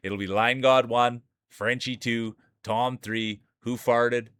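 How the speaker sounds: playful ceremony host voice; awards emcee. Acted. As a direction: hype announcer crowning the champion.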